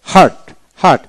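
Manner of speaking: হার্ট in the British form; British pronunciation. Shown as a demonstration. Teacher shows British form to learners, long A in হার্ট. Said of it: "আবার ব্রিটিশে".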